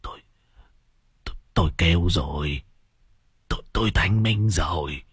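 weak, halting, weepy complaint; tearful whimpering. Acted. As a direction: stammer it out on the verge of tears. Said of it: "lão vừa mếu máo".

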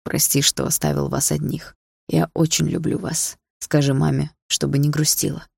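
gentle sorrow. Acted. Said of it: "со светлой печалью в голосе".

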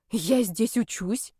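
slow, badly faked innocent surprise; fake surprise. A narrator's reading. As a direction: play dumb, poorly. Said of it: "Удивление прозвучало фальшиво". (фальшивое удивление, медленно)

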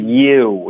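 "you" ending in oo, tongue kept down; lip-made oo. Shown as a demonstration. Teacher showing the fix, oo in "you". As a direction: let the lips shape "you". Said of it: "是靠嘴唇发的".

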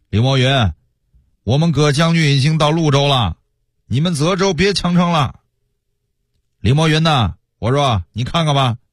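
lightly acted herald's threat called upward; acted crier's call. Soldiers below the city warn Li Moyun to give up, calling out. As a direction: call out a warning, rising on key phrases. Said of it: "叫一些嗓门大的到城下喊话".

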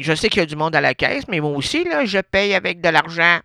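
a customer holding up the line, fussing over her tickets; a character in the style of an old-time singer. Acted. A customer holding up the lottery line, lightly voiced lady.

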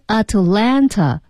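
Atlanta said with the T dropped. Shown as a demonstration. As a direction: say Atlanta as at-LAN-na. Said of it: "那就说Atlanta就不读Atlanta了". (Atlanta省略t音)

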